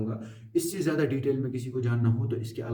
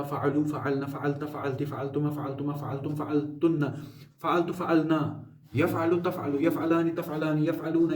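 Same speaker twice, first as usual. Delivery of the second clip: rote recitation. Shown as a demonstration. Teacher drilling students on Arabic verb forms, rote recitation. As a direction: run evenly through the verb forms. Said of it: "अब रट्टा लगाओ".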